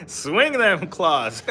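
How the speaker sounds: slow, drawn-out words through laughter; amused laughing. Real, not acted. Teasing chatter about swinging like a cat, laughing. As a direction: draw it out while cracking up.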